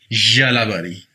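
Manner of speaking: "यालाबारी" opening on a buzzing zh; forceful zh onset. Shown as a demonstration. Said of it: "या पे थोड़ा सा जोर डाल के".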